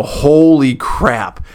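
drawn-out, very slow retold amazement; slow-motion mock astonishment; stunned exclamation. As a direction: stretch both words out in retold disbelief. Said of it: "And I go".

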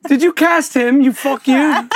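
put-on playful British accent with a laugh. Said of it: "like a British accent".

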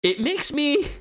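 theatrical skeptic's monologue with big rises; acted monologue. Auditioning friends, delivering a dramatic atheist monologue. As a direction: perform it like an audition speech. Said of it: "I forgot you were doing a monologue".

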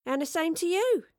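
high, cheery return greeting; loud, lifted and friendly; grinning reply. Acted. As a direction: call it back with a big grin. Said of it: "she grinned".

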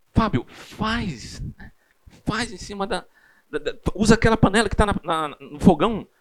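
a hint of an exasperated wife; urging wife. Wife urging Fábio to use any pot, exasperated.

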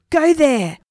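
high, firm storybook scream. A narrator's reading. Stephen sending the spirit to the guard, screaming. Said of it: "screamed Stephen".

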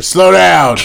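loud warning shout. Retold or imitated. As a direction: yell at the passerby. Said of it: "see who says it".

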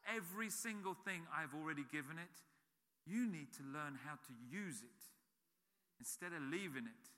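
soft voice of God. Retold or imitated. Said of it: "God keeps saying to me".

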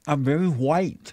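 impression of guest. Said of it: "That's a good impression".

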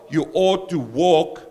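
hoarse, croaky preaching voice. Real, not acted. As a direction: speak through a croaky throat. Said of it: "my croaky voice today".

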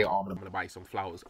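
mock sweet talk. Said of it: "And then the next day".

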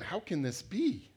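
exasperated, drawn-out question; God. Acted. Preacher as God fed up with Israelites, slow exasperation. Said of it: "I think God's going".

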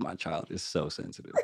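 laughing mom. Retold or imitated. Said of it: "My mom was laughing at me".

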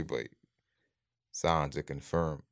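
slow hushed whisper. Retold or imitated. Reading the friend's WhatsApp preview about Kobe, slow whisper. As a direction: whisper it like dreaded news.

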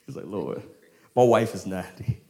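imitating Abram's quiet, amused chuckle; chuckling disbelief. Abram chuckling at the Lord's promise, amused disbelief. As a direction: chuckle softly through a mock protest. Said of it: "He just chuckled".

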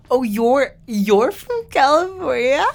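mock surprise. Acting caught out by the girl.

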